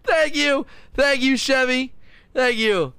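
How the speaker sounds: high-pitched, tickled thank-you; amused thanks. Real, not acted. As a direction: thank them while recovering from laughter. Thanks chat after own joke, laughing.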